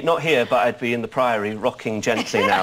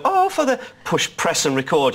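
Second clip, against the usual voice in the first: imitating the woman; 4 semitones higher than usual. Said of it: "the woman in the cathedral would say".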